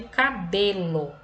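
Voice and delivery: "Cabelo" slowly with a strong BE; teacher's stretched "Cabelo", penultimate syllable stressed. Shown as a demonstration. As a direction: sound out "Cabelo", leaning on the middle BE. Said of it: "o B é a sílaba pronunciada com mais intensidade".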